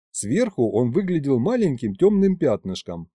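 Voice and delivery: plain reading voice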